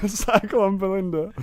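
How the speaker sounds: high, drawn-out through laughter; amused repeat. Real, not acted. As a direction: repeat it slowly, tickled by the silly name. Cracking up at friend's storm name.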